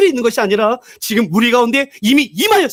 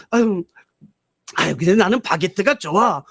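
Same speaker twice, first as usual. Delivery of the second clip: grandma's sigh; 4 semitones lower, 3 dB quieter than usual. Retold or imitated. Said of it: "할머니가 그거 보면서".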